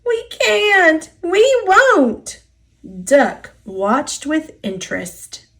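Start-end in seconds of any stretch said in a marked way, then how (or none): 0.0-2.4 much higher, whiny refusal; sulky trucks refusing to budge; stubborn whining cars. A narrator's reading. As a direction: dig in your heels and whine it. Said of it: "the cars groaned".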